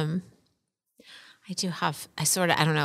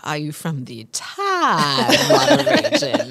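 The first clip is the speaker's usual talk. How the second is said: put-on Southern accent; 4 semitones higher, slower than usual. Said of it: "She sounded like Foghorn Leghorn".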